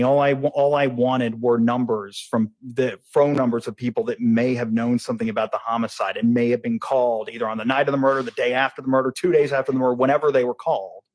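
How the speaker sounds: testimony picking up speed; getting fast. Real, not acted. Witness explaining phone records to the jury, getting fast. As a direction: run through the list without pausing. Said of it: "You're getting really fast again".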